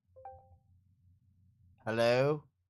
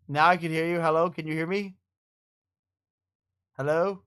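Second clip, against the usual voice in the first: calling out; 5 semitones higher, 10 dB louder than usual. Real, not acted. Testing mic, calling friend.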